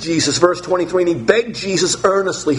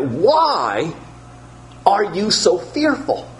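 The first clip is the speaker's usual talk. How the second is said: higher, pleading questions; Jesus questioning; 5 semitones higher than usual. Acted. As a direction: ask as Jesus why they fear. Preacher voices Jesus questioning disciples.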